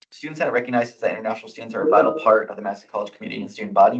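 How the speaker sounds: rushing through the resolution text; fast reading. Real, not acted. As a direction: read it aloud quickly. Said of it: "I'll try to read as fast as I can".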